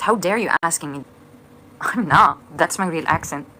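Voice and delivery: mock offended. Mock outrage at accent comment.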